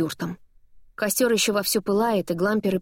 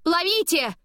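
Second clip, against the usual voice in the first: urgent high cry; 10 semitones higher, slower than usual. A narrator's reading. Chasing the flying paper.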